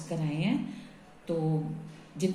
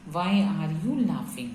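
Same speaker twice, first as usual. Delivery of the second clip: slow dictation; much slower than usual. Shown as a demonstration. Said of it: "कैसे हम English में बनाएंगे?".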